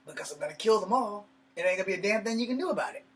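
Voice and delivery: loud, high, rushed threat of violence; furious threat. Retold or imitated. Handcuffed man yelling threats at the arresting cops, furious shout. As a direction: yell it at the cops like you mean it.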